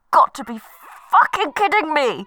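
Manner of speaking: exasperated. Acted. Exasperated caller on hold.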